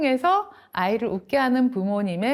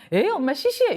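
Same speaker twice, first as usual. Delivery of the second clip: mock bored child; 7 semitones higher than usual. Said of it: "이런 반응을 볼 수도 있어요".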